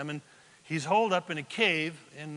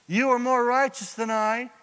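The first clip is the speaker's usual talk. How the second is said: raised, louder declamation; acted confession; 5 semitones higher, 6 dB louder than usual. Saul confesses to David, declaimed out loud. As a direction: proclaim it as a mildly dramatic admission. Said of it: "Then he said to David".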